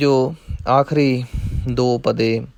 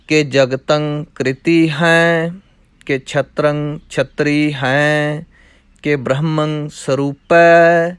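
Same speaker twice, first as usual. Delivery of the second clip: measured, chanting recitation of verse; rhythmic Gurbani recitation; scripture recitation; much slower than usual. Acted. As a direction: recite the verses steadily like a path. Recites Bhagwati chhand.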